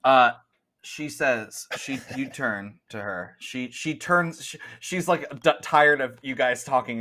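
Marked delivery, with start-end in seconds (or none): none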